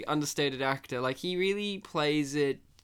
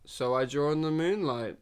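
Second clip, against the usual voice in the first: deadpan. Retold or imitated. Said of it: "the most deadpan way".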